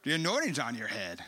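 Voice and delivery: Bob Jones. Retold or imitated. Preacher friend spots the anointing on him, Arkansas accent. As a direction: imitate an Arkansas accent, pitch swooping down. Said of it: "Arkansas accent".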